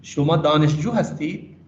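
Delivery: slow with دانشجو leaned on; دانشجو stressed, falling at the end. Shown as a demonstration. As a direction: say "شما دانشجو ہستی" slowly, hitting دانشجو. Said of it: "تو دانشجو پہ ہم stress کر رہے ہیں".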